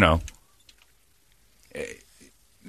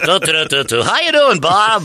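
lightly voiced carefree white guy humming, higher and louder on the greeting; 8 semitones higher, 3 dB louder than usual. Host mocking the white guy walk for co-hosts, light carefree white guy voice. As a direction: hum along, then greet Bob like a stereotypical white guy. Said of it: "and we're like".

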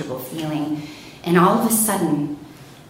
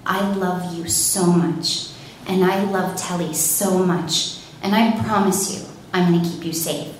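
reassuring sister. Retold or imitated. Sister reassures her before speeding.

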